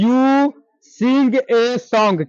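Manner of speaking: very slow, deliberate English model sentence; slow dictation. Shown as a demonstration. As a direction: spell it out word by word, very slowly. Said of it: "तो English में बोल देना है".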